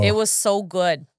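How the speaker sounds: put-on light Minnesota accent on "It was so good"; playful Minnesota accent. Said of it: "That's how they talk there".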